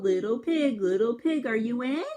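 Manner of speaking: calling to the pig through the door; sing-song call at the door. Acted. Wolf calling at pig's door.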